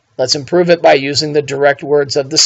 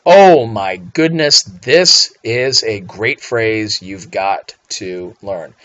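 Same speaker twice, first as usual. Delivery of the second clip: gushing praise; 2 semitones lower, much slower than usual. Acted. Teacher gushing over a phrase.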